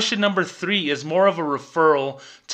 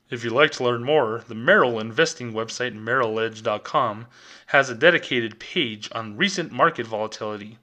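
a hint of a corporate announcer, lower; official bank voice; 3 semitones lower than usual. Teller mocking the bank's answer, lightly polished corporate read. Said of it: "Official Bank of America voice".

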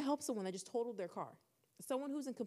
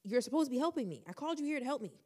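upset pleading; 3 semitones higher than usual. Retold or imitated. Retelling pleading with the trooper, rising upset.

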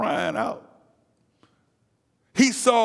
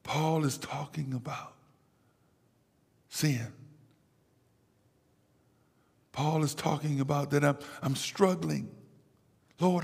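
much softer, intimate sermon voice; hushed preaching; 4 semitones lower, 9 dB quieter than usual. Real, not acted. Preacher quietly confides Paul's struggle to congregation, hushed. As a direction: drop down low and confide it to the congregation.

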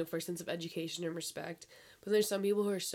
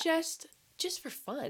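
high, slow sarcastic drawl on "just for fun"; 10 semitones higher, much slower than usual. Pretend. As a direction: stretch it out mockingly, pitched way up. Sarcastic mock reason, drawn out.

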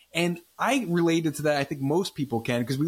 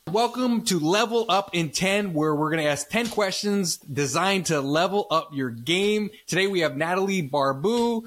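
podcast game-show welcome; show host intro; 3 semitones higher than usual. Acted.

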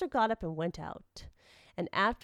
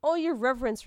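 higher, louder pleading address; piteous; 6 semitones higher, 5 dB louder than usual. A narrator's reading. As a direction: appeal piteously to the priest. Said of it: "replied Tokutaru piteously".

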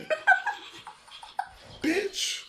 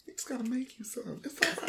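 mock consoling; 7 semitones higher, 10 dB quieter, faster than usual. Mock-consoling the sad cohost.

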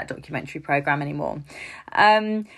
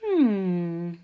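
wondering inner voice; 6 semitones higher than usual. Retold or imitated. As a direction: muse aloud like an impatient mum-to-be. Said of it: "and you're thinking".

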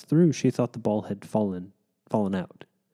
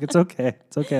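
reassuring; 4 semitones higher, 4 dB louder than usual. Retold or imitated. Father consoling toddler after miss.

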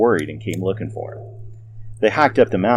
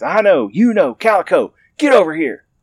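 high, loud call across the yard; calling the dogs; 9 semitones higher, 6 dB louder than usual. Acted. Old man hollering for his dogs, loud high call. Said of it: "He called out to his dogs".

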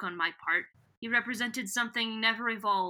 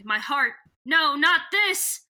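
high, loud hammed-up cry of dismay; mock anguish; 5 semitones higher, 6 dB louder than usual. Voicing Visser One misreading the book, mock anguished cry. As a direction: ham up the panic, rising high. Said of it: "is like".

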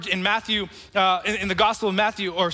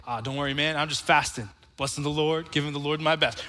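low, soft, worn-out reply; a touch of the gloomy hypocrite; tired gloomy faster; 6 semitones lower, 4 dB quieter than usual. Retold or imitated. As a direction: sound drained but pious. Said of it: "and tired and gloomy".

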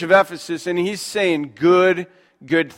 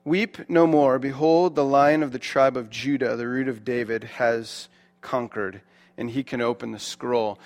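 solemn reading; 5 semitones lower, 5 dB quieter than usual. Acted. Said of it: "here we go".

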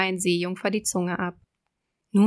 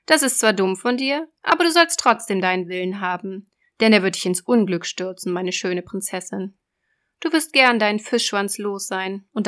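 loud, raised sea witch; 4 dB louder than usual. Acted. Witch voice in fairy tale.

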